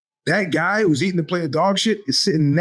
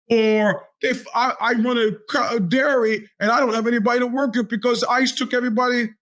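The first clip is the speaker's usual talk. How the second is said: voicing a dairy owner; 6 semitones higher than usual.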